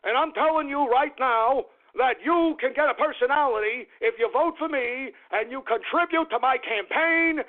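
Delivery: lightly voiced campaign speech; a hint of a stump-speech politician; Bernie Sanders impression. Mock candidate pitching free personalities to voters, light impression. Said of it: "Rip off Bernie Sanders".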